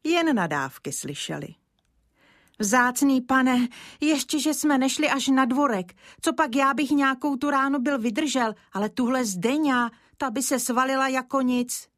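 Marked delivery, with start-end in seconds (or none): 2.6-11.9 lightly voiced child. Child speaks to gamekeeper.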